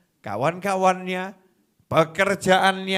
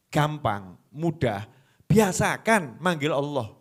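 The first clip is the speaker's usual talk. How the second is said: usual speaking voice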